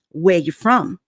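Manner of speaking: firm, mildly blunt imitated question; retold firm demand. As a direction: put it firmly, imitating the neighbor. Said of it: "Like, very firm".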